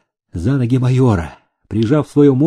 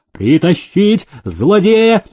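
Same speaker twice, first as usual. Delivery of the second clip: raised, slow shouted command; shouted order; 5 semitones higher, slower than usual. A narrator's reading. Officer ordering the villain brought in, shouting. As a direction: bark out the order. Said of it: "выкрикнул офицер".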